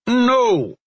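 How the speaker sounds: loud, high ringing shout; resounding no. A narrator's reading. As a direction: stop her dead with one word. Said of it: "with a resounding".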